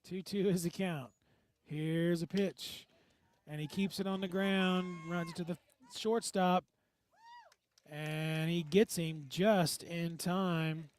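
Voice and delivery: projected, drawn-out live call; radio baseball call with stretched key words; play-by-play announcer. Acted.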